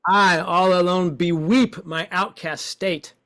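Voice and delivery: expressive woeful reading. Shown as a demonstration. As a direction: give it full woe. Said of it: "we're playing with expression".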